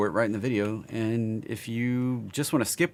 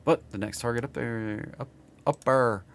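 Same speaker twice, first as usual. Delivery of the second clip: southern accent. Real, not acted. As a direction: let the Southern accent leak out. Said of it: "my southern accent coming out".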